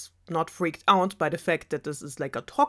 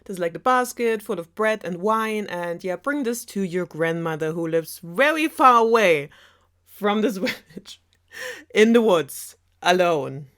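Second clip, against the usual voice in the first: put-on higher, sing-song mother instructing her child; chirpy motherly send-off, a bit louder; mother's voice; 4 semitones higher, 4 dB louder than usual. Mother sending daughter off, bright higher voice. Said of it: "her daughter and is like".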